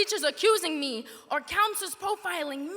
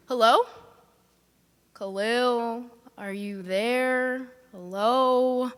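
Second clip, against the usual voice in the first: calling out; 5 semitones lower, much slower than usual. Acted. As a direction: shout Hello? up, hoping someone answers. Calling into a silent phone.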